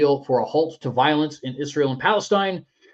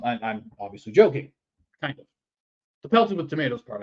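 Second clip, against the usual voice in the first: ordinary talk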